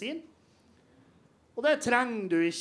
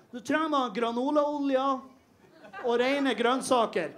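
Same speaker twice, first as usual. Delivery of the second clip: higher, slow, smug delivery; mock know-it-all; 4 semitones higher, slower than usual. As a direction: lightly ham up a preachy quack. Mocking alternative-medicine guy.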